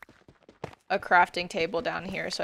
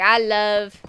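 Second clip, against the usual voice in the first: a light Minnesota accent, long round o; a hint of Minnesota accent, louder; 8 dB louder than usual. Shown as a demonstration. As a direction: play up the Upper Midwest vowels, loud. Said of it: "saying it in the accent".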